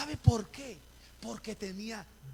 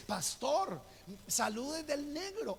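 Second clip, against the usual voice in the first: lightly acted caller, higher-pitched, drawn out; imitando a la hermana; 6 semitones higher, slower than usual. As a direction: greet the pastor in a higher, stretched-out voice. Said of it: "me dice". (imitando un saludo por teléfono)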